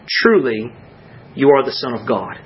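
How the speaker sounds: low, measured, reverent declaration; reverent address. Retold or imitated. Those in the boat worshipping Christ, reverent. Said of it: "talked to a friend in that tone".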